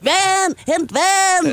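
high, loud panicked cry; shouting for water. Retold or imitated. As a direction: yell for water in alarm. (panisk råb)

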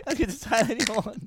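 said through laughter; laughing. Real, not acted. Joking that he is off to Thailand tomorrow, laughing. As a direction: giggle through the line.

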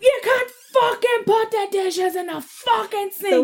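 high, slow mock yell through laughter; retold angry outburst. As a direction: replay the blow-up, laughing at yourself. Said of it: "I literally was like".

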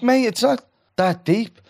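high, slow and put-on; slow high scoff; mock exasperation. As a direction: drag it out, exasperated. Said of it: "But I'm like".

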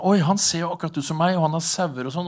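mock surprise, acted out lightly; surprised shepherd. Storyteller voices a shepherd spotting his lookalike across the river, mildly surprised.

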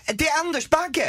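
excited shout. Real, not acted. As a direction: yell out the answer in triumph. Host shouts the guessed name. (jublande rop när han gissar rätt)

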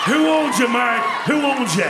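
loud hype shout. Real, not acted. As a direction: call it out to the crowd. Crowd shouting at fighter.

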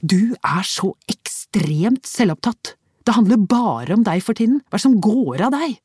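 wife lashing out at her selfish husband; angry accusation. Acted.

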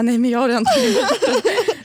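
high-pitched mock protest. Acted protest to boyfriend. (spelad protest i ljust röstläge)

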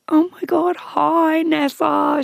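put-on high-pitched, gushing drunk greeting; drunken sister. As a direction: imitate a tipsy sister squealing hello. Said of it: "absolutely locked".

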